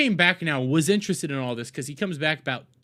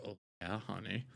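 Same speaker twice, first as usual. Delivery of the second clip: imitating Cloud; 10 semitones lower, 17 dB quieter than usual. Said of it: "Cloud would be like".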